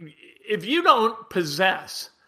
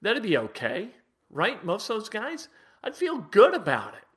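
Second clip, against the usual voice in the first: soft, much quieter, a gently mocking inner voice; mock nice-guy musing; 6 dB quieter than usual. Host mocking what fans think of nice players, soft and quiet. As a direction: hush it like a naive fan admiring polite players. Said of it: "and you think".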